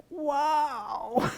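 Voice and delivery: breathy whispered wow of amazement; awed whisper. Retold or imitated. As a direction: whisper it, stunned at the story. Listener reacting to missed chance.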